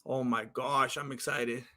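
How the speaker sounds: under the breath, barely containing it; excited whisper before the walkout; hushed excitement. Real, not acted.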